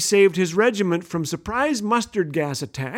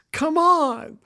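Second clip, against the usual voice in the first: incredulous; 8 semitones higher than usual. Real, not acted. Incredulous at frozen frog.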